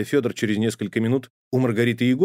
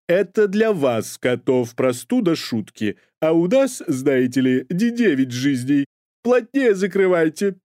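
put-on high, slow theatrical old nanny; high, slow proud invalid nanny; dramatic sick nanny; 6 semitones higher, 4 dB louder, slower than usual. A narrator's reading. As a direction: announce illness like a triumph. Nanny lectures the cat.

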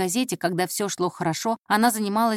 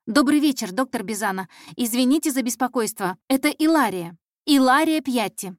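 put-on higher, louder, eager girl on the phone; apologetic young caller; 4 semitones higher, 4 dB louder than usual. Intern phoning a busy detective, eagerly apologetic. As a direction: introduce yourself politely and anxiously.

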